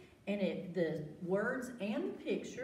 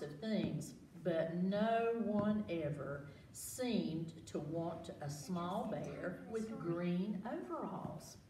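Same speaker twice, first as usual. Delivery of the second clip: put-on reading to children. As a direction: draw the kids into the story. Reading picture book aloud.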